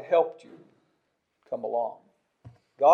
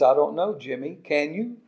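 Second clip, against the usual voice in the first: snide; 4 dB quieter than usual. Retold or imitated. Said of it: "In her little snide way of saying things".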